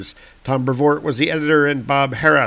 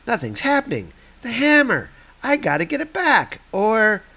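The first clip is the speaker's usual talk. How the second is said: much higher, rushed panic; panicked hero; 9 semitones higher than usual. Acted. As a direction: realize the hammer is gone. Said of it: "hero panicking".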